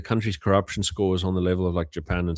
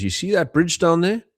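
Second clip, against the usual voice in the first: high teasing quote; 11 semitones higher, 5 dB louder than usual. Retold or imitated. Nigerian's punchline setup.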